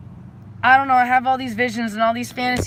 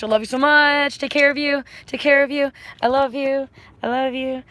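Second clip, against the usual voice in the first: high, gushing sign-off; loving, excited send-off; effusive affection; 4 semitones higher, 4 dB louder than usual. Real, not acted. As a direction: gush it higher, over and over. Effusive repeated goodbye to viewers.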